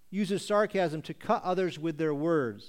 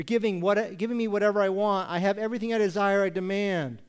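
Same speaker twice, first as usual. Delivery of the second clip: entitled leader; 3 semitones higher, 4 dB louder than usual. Acted. Acts an entitled self-serving leader.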